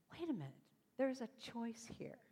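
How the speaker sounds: softly dawning thought, partly whispered; hushed realization. Retold or imitated. Geeky girl realizing she can choose, hushed realization. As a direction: say it under your breath, as to yourself. Inner voice suddenly notices a choice.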